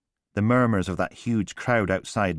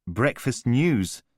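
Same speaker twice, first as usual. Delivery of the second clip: slow, stunned repeat of Breakfast news; stunned echo; 4 semitones higher, much slower than usual. Acted. Callum stunned by the publicist's plans, echoing slowly in disbelief.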